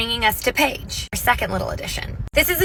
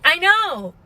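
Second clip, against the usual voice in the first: excited; 8 semitones higher, 3 dB louder than usual. Retold or imitated. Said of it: "I'm like".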